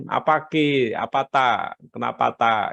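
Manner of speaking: Bugis accent. Shown as a demonstration. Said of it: "pakai logat Bugis".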